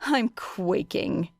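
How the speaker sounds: slow, unimpressed sarcasm; deadpan, slow sarcasm; mock fear said slowly and dry. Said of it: "she said dryly".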